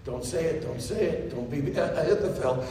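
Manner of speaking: soft, low, pleading under the breath; David dreading the news, soft and low. Acted. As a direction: quietly beg the news not to be true. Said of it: "I know what David's thinking".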